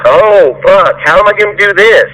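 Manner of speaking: mock the lazy worker's fretting; a hammed-up imitation of a flustered employee; whiny employee mockery. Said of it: "And not".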